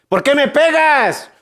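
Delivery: a beaten donkey protesting its master; talking donkey. Acted. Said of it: "en vez de rebuznar".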